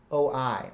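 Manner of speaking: "Oh, I" with the weight on "I"; two-beat iamb, "Oh" leading into "I"; unstressed then stressed. Shown as a demonstration. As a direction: lean from "Oh" onto a stressed "I". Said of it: "unstressed stress".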